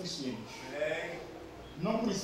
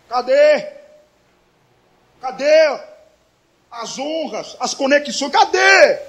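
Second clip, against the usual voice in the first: loud demands, rising on each question; cobrança indignada a Deus; 5 semitones higher, 12 dB louder, slower than usual. Retold or imitated. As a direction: cry out 'where is it?' in protest, louder each time. (cobrança em voz alta, indignada)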